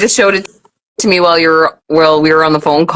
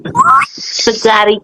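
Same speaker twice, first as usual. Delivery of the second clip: slow, drawn-out little plea; 3 semitones higher, much slower than usual. Real, not acted. Child begs Daddy again, slow drawn-out plea. Child keeps begging for McDonald's.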